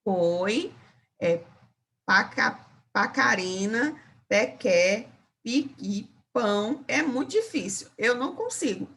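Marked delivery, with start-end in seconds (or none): 0.0-6.8 attempting the P-language; hesitant P-language attempt; speaking língua do P. Shown as a demonstration. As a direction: stumble through língua do P syllables. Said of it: "Mas eu vou tentar".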